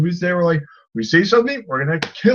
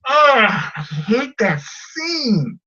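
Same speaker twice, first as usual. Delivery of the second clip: exasperated; 5 semitones higher, much slower than usual. Real, not acted. Exasperated groan about hated scene.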